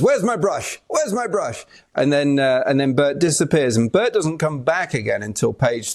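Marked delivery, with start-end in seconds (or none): 0.0-0.8 raised-pitch caretaker line; lightly voiced book caretaker; caretaker character. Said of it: "Bert comes in on page three and says". 0.9-1.6 higher-pitched caretaker repeat; lightly voiced caretaker, pitched up; caretaker character. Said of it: "Bert comes in on page three and says".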